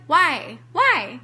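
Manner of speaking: reenacting an exasperated appeal upward; retold plea. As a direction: demand an answer from the heavens. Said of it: "looked up to the sky and was like".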